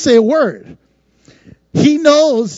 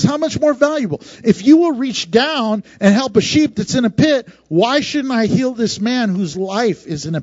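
retelling Jesus casually. Retold or imitated. Pastor paraphrasing Jesus to the congregation in a casual, lively voice. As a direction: say it like you're just talking it out. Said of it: "He goes".

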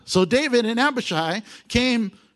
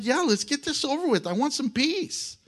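mock weary eagerness; 7 semitones higher than usual. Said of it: "I would be like".

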